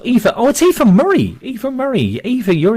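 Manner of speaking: excited. Real, not acted. Excited greeting of a player.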